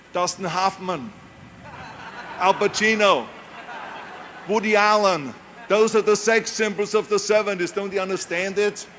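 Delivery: ram home the agents' point, mock-insistent; mocking agents' lecture. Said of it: "they said".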